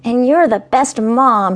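put-on high, slow, earnest child; sincere little boy. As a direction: say it slowly and earnestly. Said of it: "with deeply sincere eyes".

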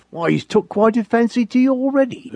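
a lightly voiced folksy master; Master's voice. A narrator's reading. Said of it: "said Master".

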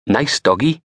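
high, wary coaxing of a dog; nervous placating. Acted. Scared man placating a monster dog.

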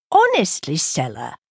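a rebuke thrown up then dropped; exasperated. Acted. Marjorie scolding Stella for fussing over her name, exasperated. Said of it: "said Marjorie, exasperated".

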